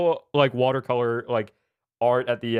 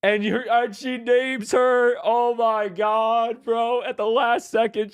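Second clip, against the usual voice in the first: excited; 9 semitones higher, slower than usual. Real, not acted. Reacting to the game's ending.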